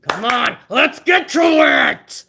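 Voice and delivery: slow, drawn-out shout of impatience; real exasperated bellow; impatient shout. Real, not acted. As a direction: yell at the screen to hurry up. Fed up with the slow show.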